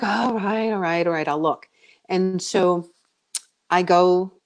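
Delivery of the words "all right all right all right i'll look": grudging. Retold or imitated.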